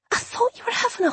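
a hint of a sigh. A narrator's reading. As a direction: let it out on a sigh of disappointment. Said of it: "Jenny sighed".

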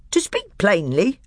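high, loud, heaping insults; scornful dwarf. A narrator's reading. Nickabrick mocking the magician in open anger. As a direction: jab each name at him.

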